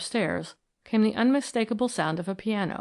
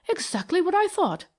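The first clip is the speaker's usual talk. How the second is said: triumphant; 10 semitones higher than usual. A narrator's reading. Discovering the secret doorway.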